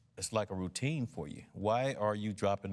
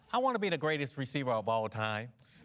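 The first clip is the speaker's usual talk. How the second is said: Mississippi accent; 3 semitones higher than usual. Shown as a demonstration. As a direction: say it the Mississippi way, as a rookie. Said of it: "Let's hear it".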